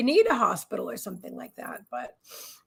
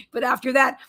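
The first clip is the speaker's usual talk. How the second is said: ordinary delivery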